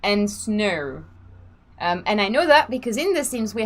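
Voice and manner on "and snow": imitating Australian accent. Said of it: "Australian accent".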